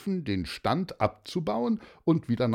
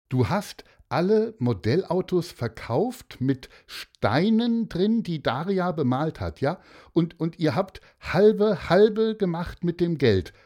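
high, emphatic checking questions; incredulous father; 9 semitones higher, 5 dB louder than usual. Acted. Father questioning Martin about sharing the money, incredulous. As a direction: repeat it back in disbelief.

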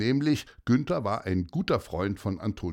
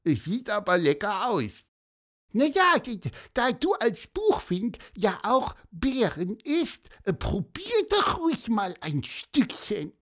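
high bird voice; 10 semitones higher than usual. Acted. Bird character Pieper speaking.

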